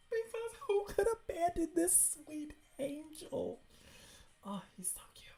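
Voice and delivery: high-pitched cooing; gushing over cuteness. Real, not acted. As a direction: coo high, as if to an adorable puppy. Gushing over a cute dog.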